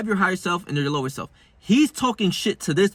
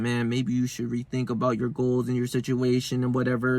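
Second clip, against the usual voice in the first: low-key, slightly lower monotone self-doubt; a hint of an inner doubter; 3 semitones lower, 4 dB quieter than usual. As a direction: lightly voice a nagging doubt in an even tone. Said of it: "the bad side is in my brain thinking".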